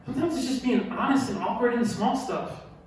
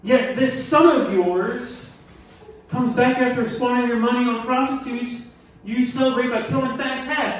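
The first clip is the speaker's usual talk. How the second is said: resentful son; 4 semitones higher, 5 dB louder than usual. Acted. Older son accusing his father, bitter and loud. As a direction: drag out this son of yours with contempt. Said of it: "you know when someone's really mad".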